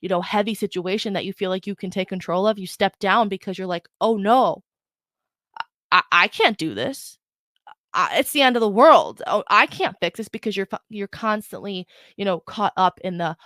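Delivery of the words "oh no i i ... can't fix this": stammering, hammed-up worry; lightly acted helpless alarm; mock panic. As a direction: imitate someone giving up in a fluster. Acts out a self-doubting panic.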